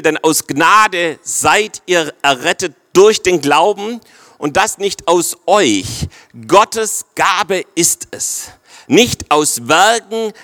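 slow, weighty Bible reading; solemn scripture reading. Acted. Preacher reading Ephesians to the congregation, slow and solemn. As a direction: read each phrase out slowly. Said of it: "Wir lesen nochmal Vers acht".

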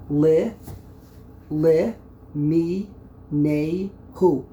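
"li, mi, nehu" in separate beats with pauses; syllable by syllable. Shown as a demonstration. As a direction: count out "li, mi, nehu" slowly, each syllable on its own. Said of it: "You break up the word".

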